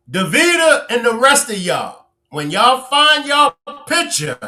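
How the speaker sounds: high-pitched teasing threat; mock warning. Real, not acted. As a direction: warn them playfully, pitched high.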